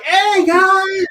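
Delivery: high, eager hey guys; mock cocaine-fueled hustler; eager salesman. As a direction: greet like a hyped-up salesman. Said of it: "looked like he was on cocaine".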